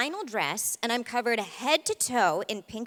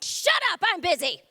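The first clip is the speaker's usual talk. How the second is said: general; 6 semitones higher, 3 dB louder than usual. Acted. General brushing her off.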